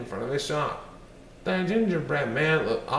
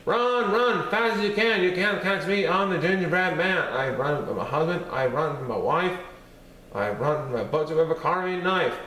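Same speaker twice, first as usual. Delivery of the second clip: high, loud, shouted taunt; 3 semitones higher than usual. Acted. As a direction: yell it so the fox can hear. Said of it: "in a very loud voice he said".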